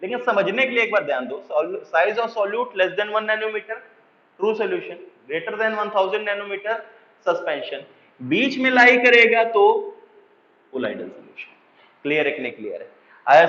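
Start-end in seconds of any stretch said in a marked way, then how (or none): 1.5-7.8 slow, even dictating pace; slow dictation. Shown as a demonstration. Teacher dictating definitions so students can write them down, slowly. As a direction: spell it out word by word for note-taking.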